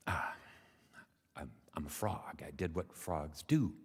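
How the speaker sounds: halting, understated shrug of a voice; modest frog. Acted. Frog answers the mother's praise, modest and hesitant.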